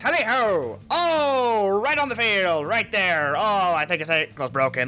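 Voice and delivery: drawn-out sportscaster play-by-play announcer voice. Recalling a bit he did on stream, the speaker does an announcer voice. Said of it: "the whole fucking like the announcer voice".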